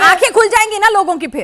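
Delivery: pointed, high-pitched challenge. Real, not acted. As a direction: cut in over the arguing guest. Anchor cuts into heated argument.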